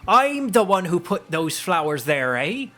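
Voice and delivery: high-pitched scolding crone voice; hammed-up hag, rising on each "eh"; indignant old hag. Hag confronting intruders at the flowers, indignant high voice.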